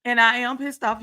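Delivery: loud opening, then a heated repeat; real anger. Real, not acted. Telling off the producer over Destiny, heated anger. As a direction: let the real irritation show. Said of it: "You can hear it in my voice".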